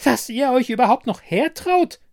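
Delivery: loud, high-pitched nagging fury; high, indignant screeching; shrewish scolding. A narrator's reading. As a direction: scold them at the top of your voice. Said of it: "keifte sie".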